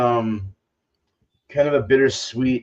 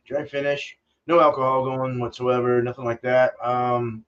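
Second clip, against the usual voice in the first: halting, filler-heavy thinking aloud; lots of ums and uhs; slower than usual. Real, not acted. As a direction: keep pausing with um and uh. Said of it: "sorry for all the ums".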